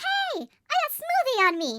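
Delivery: put-on little child's voice. Retelling what the boy in the back seat said while driving, little child's voice. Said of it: "I heard from the back seat a little voice say".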